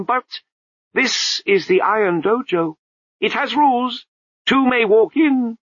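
a high babbling abbot voice, breaking into nonsense; abbot's voice. A narrator's reading. The abbot scolds the crowd, high babbling voice. Abbot explains dojo rules.

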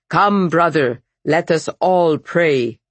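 put-on rich, full old monk's call. A narrator's reading. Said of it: "raised his voice, rich and full".

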